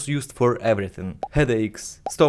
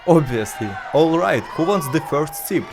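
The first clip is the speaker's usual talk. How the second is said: mock hawker call; 3 semitones higher than usual. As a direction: call out to the crowd like a vendor. Hawking blood after executions.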